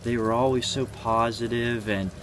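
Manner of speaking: a grieving friend's confused lament; bewildered mourner. Retold or imitated. Grieving friends voiced in confused disbelief. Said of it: "friends and family always say the same thing".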